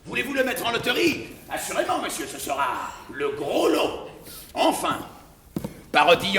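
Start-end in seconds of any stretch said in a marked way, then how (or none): 0.1-4.1 practical. Acted.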